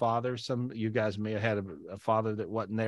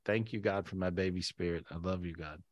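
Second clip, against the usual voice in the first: soft prayer; 6 semitones lower, 8 dB quieter than usual. Shown as a demonstration. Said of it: "now just simply say".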